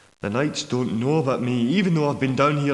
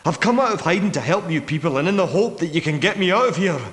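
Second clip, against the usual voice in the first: higher-pitched, more insistent; urgent plea; 4 semitones higher than usual. Acted. Hidden man asking strangers to get him out, urgent. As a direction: plead with mounting urgency.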